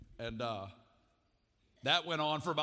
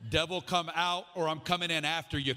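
loud mock-Pentecostal rebuke; fiery praying mom; 3 semitones higher, 5 dB louder than usual. Praying mom rebuking the devil, loud mock rebuke. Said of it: "Pentecostal praying moms".

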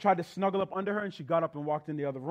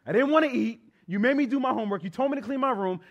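put-on whiny kid; 7 semitones higher, 5 dB louder than usual. Retells childhood complaint to mother.

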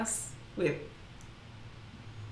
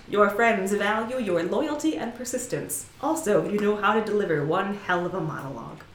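rushed, slurred reading; too fast and blurred. Shown as a demonstration. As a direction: rush it and blur the words together. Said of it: "talking too fast and blurring the words".

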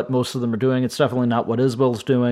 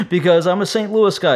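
laughing; 5 semitones higher, 3 dB louder than usual. Real, not acted. Laughing while explaining.

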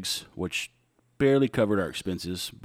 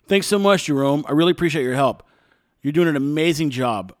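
bright, high, louder, syrupy politeness; sugary mock thanks; 4 semitones higher, 5 dB louder than usual. Thanking the TSA agent Jerome, with sugary mock gratitude. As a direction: lay the thanks on thick, sweet as pie.

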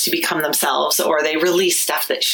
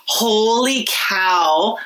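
awed whisper; 4 semitones higher, much slower than usual. Retold or imitated.

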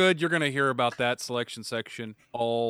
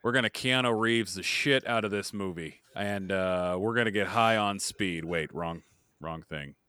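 cowboy voice; 4 semitones lower than usual. Acted. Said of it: "why do you sound like John Wayne".

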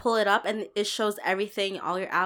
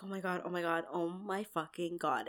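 softer, lower muttered disbelief; hushed panic; 4 semitones lower, 11 dB quieter than usual. Retold or imitated. Stuck at the restaurant washroom, hushed panic. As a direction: repeat it under the breath, slowing down. Retold panic after vomiting.

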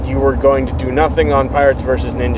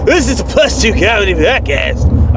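raised, slightly manic madman voice; insane voice; 6 semitones higher than usual. Pretend. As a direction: play a loopy lunatic. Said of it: "I know that's my insane voice".

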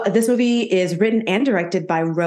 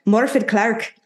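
higher, with an Irish lilt; Irish accent; 4 semitones higher than usual. Pretend. Host retries the actress's name, playful Irish accent. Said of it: "I wanna say it in, like, an Irish accent".

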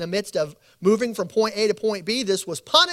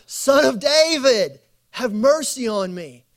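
crying out; 6 semitones higher, 6 dB louder than usual. Acted. Blind Bartimaeus begging Jesus as he passes, a high pleading cry. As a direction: plead out loud to be heard over the crowd. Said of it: "he cried out".

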